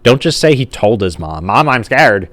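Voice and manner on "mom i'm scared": raised voice, no fear; merely loud, not scared; emotionless loud voice. Acted. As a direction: say it a bit loudly, without feeling. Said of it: "he's just saying it in a loud voice".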